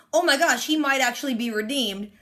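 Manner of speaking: laughing through the words. Real, not acted. Fan laughing at a villain's redemption, amused laugh. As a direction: giggle it out, amused.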